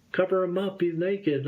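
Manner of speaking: a hint of a fussing young woman; flustered girl. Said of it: "one of the girls was like".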